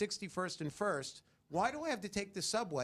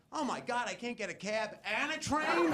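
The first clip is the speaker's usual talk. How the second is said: hammed-up disbelief; mock frustrated rider; mock outrage; 6 semitones higher than usual. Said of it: "black people would be like".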